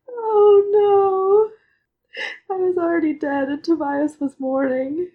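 high wail fading to a teary whisper; crying. Real, not acted. Fan rereading the death scene, crying then whispering. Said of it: "I'm crying again".

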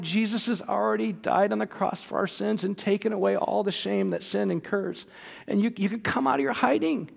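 soft, tender fatherly comfort; gentle reassurance. Retold or imitated. Father comforting his ashamed son, gentle and soft. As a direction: reassure a hiding child softly.

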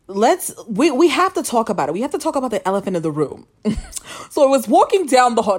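lightly imitated talk-show host, pitch swooping up; hint of a talk-show host launching into hot gossip; Wendy Williams. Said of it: "that was my Wendy Williams impression".

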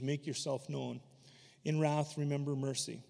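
solemn reading of Habakkuk's prayer; scripture reading. Acted. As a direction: pray it with awe.

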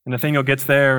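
ordinary talk

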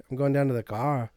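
Kiwi vowels on "going down to the car"; New Zealand accent. Shown as a demonstration. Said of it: "and we're like".

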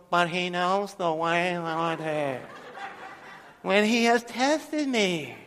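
soft, slow, mock lifeless recitation breaking into a laugh; parodying the congregation's weak reading; half-hearted mumble. Shown as a demonstration. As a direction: mumble it like you don't mean it. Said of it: "Nobody's doing it like that".

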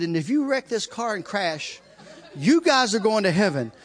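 chuckling while telling the plea; laughing through it. Real, not acted. To John in the speeding car, laughing.

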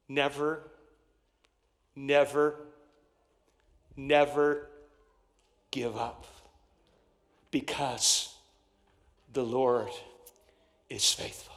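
"never, never, never" low, each word standing alone; long pause after each "Never" and before "the Lord"; solemn emphatic pauses. Real, not acted. Preacher drives home perseverance with pauses.

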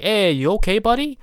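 high, loud mock concern; chirpy "you okay buddy" voice; caring bystander.

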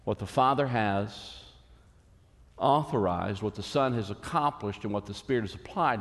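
spaced out so people can write it down; slow dictation pace. Shown as a demonstration. Pastor repeating the line so the congregation can copy it, slow and deliberate. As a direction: read it out slowly, phrase by phrase, for note-taking. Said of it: "Let me say that in case you want to write that down".

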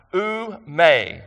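"Oume" said as OO-may; demonstrated pronunciation. Shown as a demonstration. Preacher showing a Greek word, "Oume" pronounced oo-may. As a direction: say "Oume" as two clear syllables, oo-may. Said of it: "that's how I pronounce it".

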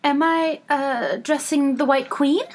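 high, hesitant little question; tentative high-voiced girl; timid Alice. A narrator's reading. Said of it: "rather timidly".

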